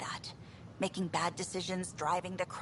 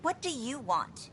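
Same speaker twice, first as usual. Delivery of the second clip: irritated snap, pitched up; snapped; 4 semitones higher than usual. Acted. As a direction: snap at someone interrupting you. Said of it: "I'm sorry I snapped at you".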